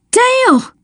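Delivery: shout. A narrator's reading. Child shouting to a friend as the woman falls, urgent. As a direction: call out urgently, pitch leaping. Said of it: "I shouted".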